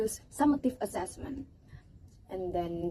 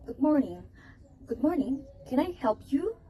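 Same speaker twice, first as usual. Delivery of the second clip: a friendly shop seller greeting a customer; cheerful seller greeting; 5 semitones higher than usual. Shown as a demonstration. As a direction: welcome the buyer like a helpful market seller. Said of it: "For example, the seller said".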